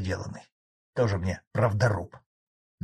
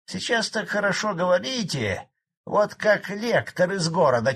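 выше и громче, сварливый деревенский старик; спорь с председателем, как упрямый колхозник; ворчливый старик; 6 semitones higher, 3 dB louder than usual. A narrator's reading. Старый колхозник спорит с председателем. (сварливый старик спорит с председателем)

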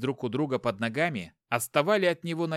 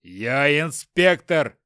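slow loud retort; 8 dB louder, much slower than usual. Acted. Husband defends himself.

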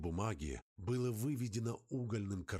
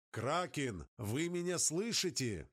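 calling into radio; 5 semitones higher than usual. Acted.

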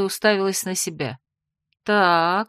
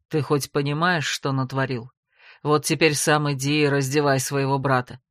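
lower, scolding male voice with a sneer; stern older brother; 6 semitones lower than usual. Acted. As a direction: tell him off like the elder. Velvety low first male voice.

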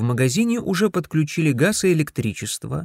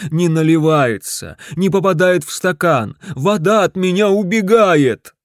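louder, higher moaning complaint; groaning; 5 semitones higher, 6 dB louder than usual. Acted. Husband groans to his wife about the water. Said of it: "простонал он".

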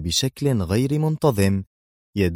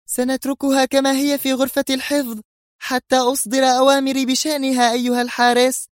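much higher, furious commanding voice; raging shout; 4 dB louder than usual. A narrator's reading. Sonia ordering the guard, high furious scream. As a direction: bark the order in fury. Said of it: "صرخت سونيا في غضب عارم".

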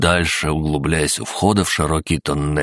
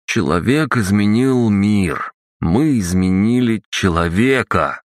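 jubilant; 4 semitones higher than usual. Acted. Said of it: "рыцарь ликовал".

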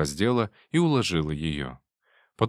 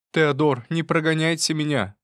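raised pleading voice; pleading wife; 8 semitones higher, 3 dB louder than usual. Acted. Wife begging her husband, pleading. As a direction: beg him not to send you away. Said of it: "сказала она по-французски".

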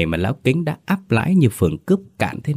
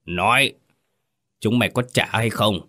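growled threat. Acted. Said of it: "Lão gằn giọng".

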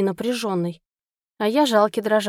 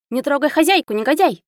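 high, loud little beast snarling; growling squirrel; 5 semitones higher, 5 dB louder than usual. Acted. Squirrel defending his mistress from the prosecutor, high loud snarl. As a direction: attack him with a tiny growl. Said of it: "зарычал Арчибальд".

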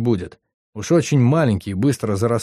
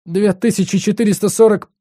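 struggling to recall; 9 semitones higher, 4 dB louder than usual. Acted. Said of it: "с трудом вспомнил парень".

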